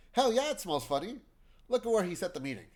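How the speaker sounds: loud, high-pitched indignation; heated outburst. Acted. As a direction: burst out in heated agreement. Character heatedly agrees, complains.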